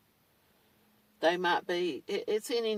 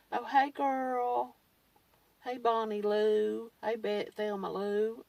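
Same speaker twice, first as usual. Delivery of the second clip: higher, slow, gushing sugary hello; mock fawning greeting; 3 semitones higher than usual. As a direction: ham up a fan gushing over her. Followers greeting her, mock fawning.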